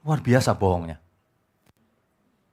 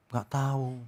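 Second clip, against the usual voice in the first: meek sick person; 2 semitones lower, 11 dB quieter, slower than usual. Retold or imitated. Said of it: "Kemarin ada yang kirimin saya begini".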